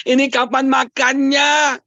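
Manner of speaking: mock exasperation. Husband waiting through food photos, mock exasperated. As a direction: wail it like a hungry, impatient husband.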